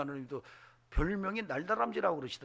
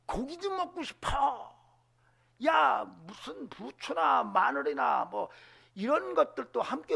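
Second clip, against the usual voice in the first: loud, higher whiny grumbling, stretched slow; complaining foreigners; 7 semitones higher, 7 dB louder than usual. Retold or imitated. Foreign tribes to Israelites, loud whiny grumbling. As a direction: whine about missing meat and garlic. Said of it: "불평하니까".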